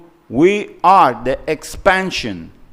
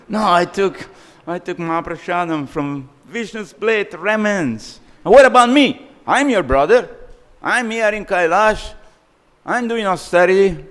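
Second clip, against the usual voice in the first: indignant complaint; 6 semitones higher, 3 dB louder than usual. Acted. Complaining of being left out.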